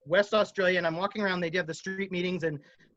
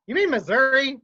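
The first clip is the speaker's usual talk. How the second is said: laughing disbelief; 7 semitones higher, 7 dB louder than usual. Retold or imitated. Mocking his mispronunciation.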